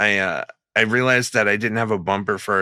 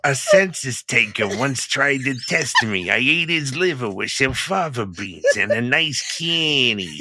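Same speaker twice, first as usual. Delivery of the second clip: slow, drawn-out Hannibal impression; Hannibal Lecter impression; 3 semitones higher than usual. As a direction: take it slow and menacing. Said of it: "All right, now you".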